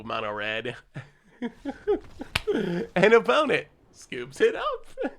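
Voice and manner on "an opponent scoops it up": gleeful laugh through the words; real laughter, a bit louder. Real, not acted. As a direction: chuckle it out as they concede. Opponent concedes, streamer laughs.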